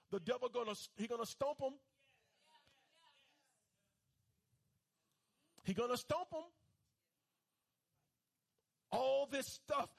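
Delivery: fervent preacher cadence; preaching. Acted. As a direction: preach it to the congregation. Preaching sermon.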